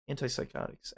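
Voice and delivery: hushed breathy word; student whispering the scandal; whispered. Acted. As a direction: whisper it like a secret. Gossip whispered.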